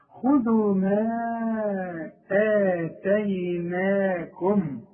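slow measured Quran recitation, long held vowels. Shown as a demonstration. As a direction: recite slowly, drawing out each long vowel. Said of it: "أقول ما وده مش وقف".

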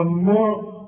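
"الماء" darkened into "almo"; wrong heavy vowel. Shown as a demonstration. Teacher mimicking the student's slip, wrong heavy vowel. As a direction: thicken the a of "الماء". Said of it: "هتقول ايه؟".

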